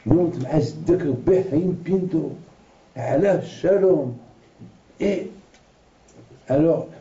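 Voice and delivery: lightly voiced old Moroccan man; Moroccan accent. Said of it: "Il parlait comme un Marocain, avec l'accent marocain".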